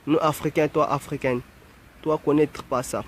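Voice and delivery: lightly imitated African accent in broken French; mock African French. Mimicking how Africans supposedly talk, mock African French. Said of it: "Comme ils disent les Africains".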